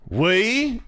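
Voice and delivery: high mock-Australian query; Mia. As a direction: question it in a bad, high Aussie accent. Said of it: "the shitty Australian accent".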